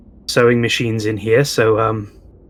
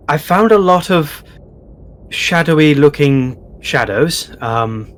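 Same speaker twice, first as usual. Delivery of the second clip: character voice; 2 semitones higher than usual. Acted. Player character addresses the goblin.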